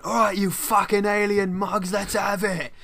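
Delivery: high, loud cockney hard-man shout; bellowed geezer challenge, pitched well up; Danny Dyer. Acted. Podcaster mimicking a TV star taking on aliens, mock-aggressive yell. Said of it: "Danny Dyer walking around a field going".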